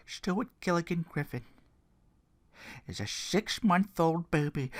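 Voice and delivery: a lightly voiced dramatic wrestling promo; hint of a gravel-free Foley promo; Mick Foley impression. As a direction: tell it like a haunted veteran, building. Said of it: "my Mick Foley is already not that good".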